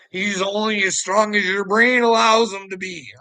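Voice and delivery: ordinary talk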